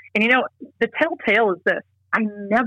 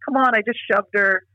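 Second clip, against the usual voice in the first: laughing it off; 3 semitones higher than usual. Retold or imitated. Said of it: "he laughed it off".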